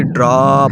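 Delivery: ڈراپ with a long open AA; long AA sound. Shown as a demonstration. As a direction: stretch the AA in ڈراپ, as "draap". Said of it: "الف مد آ کی آواز دے رہا ہے". (ڈراپ میں الف مد آ کی لمبی آواز)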